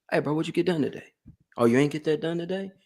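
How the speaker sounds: quick, no-nonsense coach voice; drill sergeant. Retold or imitated. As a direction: push the client like a drill sergeant. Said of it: "like a drill sergeant for my clients".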